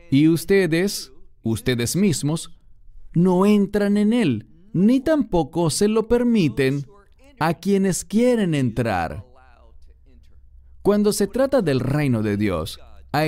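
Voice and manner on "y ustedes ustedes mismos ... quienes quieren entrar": forceful rebuke. Acted. Preacher quoting rebuke to hypocrites.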